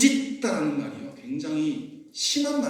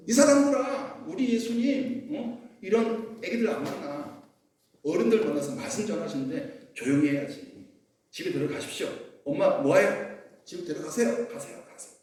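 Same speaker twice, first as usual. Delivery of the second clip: scolding disciple. Acted. Disciples shooing parents away.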